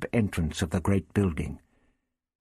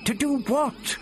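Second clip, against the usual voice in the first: high, puzzled question; confused; 14 semitones higher than usual. A narrator's reading. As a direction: ask it in baffled surprise. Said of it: "Barbara paused, confused".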